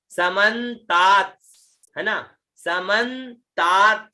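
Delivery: समन्तात drawn out slowly with a released "ts" at the end; final half consonants. Shown as a demonstration. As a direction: stretch the long aa in समन्तात, finish on "ts". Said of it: "आधा त और आधा स भी".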